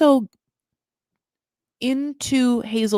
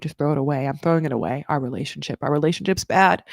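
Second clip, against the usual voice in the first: low deadpan breakup; 5 semitones lower than usual. Pretend. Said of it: "she is like".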